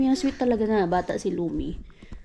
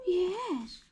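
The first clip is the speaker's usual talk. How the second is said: normal talking voice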